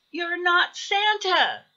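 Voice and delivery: small hare voice, mildly accusing; lightly voiced Baby Hare. A narrator's reading. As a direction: object like a little hare. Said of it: "said Baby Hare".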